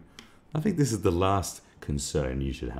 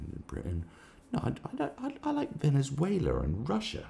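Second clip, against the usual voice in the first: mocking Corbyn impression. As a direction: play a dithering politician, squeaking up on the "I, I".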